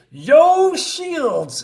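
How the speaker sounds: shouted high and loud, a squad cheer; rallying shout. Acted. Troops cheering for the mission, a loud high rally shout. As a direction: bark it out like a rallying cry to the team. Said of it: "And they say".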